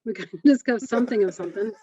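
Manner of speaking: giggling through the words; laughing while talking. Real, not acted. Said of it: "I can't stop laughing".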